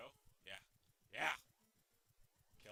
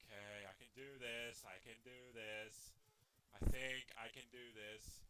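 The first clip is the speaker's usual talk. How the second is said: low, soft pep talk to self; hushed, low reassurance to self; quiet self-encouragement; 12 semitones lower, 11 dB quieter than usual. Real, not acted. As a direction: murmur it to steady yourself.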